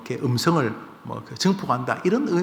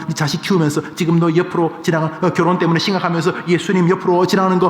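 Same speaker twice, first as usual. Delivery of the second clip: urgent nudging; 2 semitones higher, 3 dB louder than usual. Acted. Preacher voices someone urging a churchgoer to notice Jesus, insistent. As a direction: urge them on, piling up examples.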